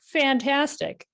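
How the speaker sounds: stretched-out delighted "Fantastic" up high; pleased. Real, not acted. Delighted reply to a viewer's good news. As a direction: savor the good news slowly.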